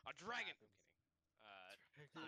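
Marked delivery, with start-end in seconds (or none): 0.1-0.6 loud, high sudden reveal; dramatic announcement. Acted. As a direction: announce it like a big monster reveal. GM announces dragon as joke.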